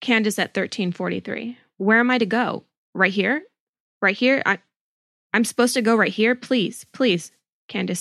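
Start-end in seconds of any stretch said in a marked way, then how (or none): 1.8-7.3 higher, quick worried questions; a touch of frantic begging; mild anxious pleading. Acted. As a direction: ask in mock panic, understated. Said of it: "And I'll be Candace".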